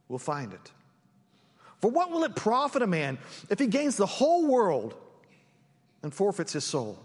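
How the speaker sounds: measured, solemn Bible reading with pauses between phrases; scripture reading. Acted. Pastor reading Peter's rebuke and Jesus' reply to church, scripture reading. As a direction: read the passage out to the congregation. Reads the scripture passage aloud.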